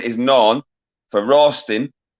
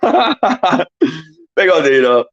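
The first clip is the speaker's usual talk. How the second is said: slow, stretched silly voice; a long, goofy drawl of a greeting; drawn-out greeting; 5 semitones higher, 4 dB louder, much slower than usual. Pretend. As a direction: stretch each word out playfully.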